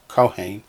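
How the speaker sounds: "kohen" as KO-hen, first syllable stressed; teacher models "kohen" KO-hen. Shown as a demonstration. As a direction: lean on KO in "kohen". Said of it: "Accents on the first syllable".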